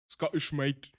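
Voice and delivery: amateur attempt at a Scottish accent. Shown as a demonstration. Streamer trying how a dwarf talks, amateur Scottish accent. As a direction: try out a rough Scottish lilt. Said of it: "I love the Scottish accent".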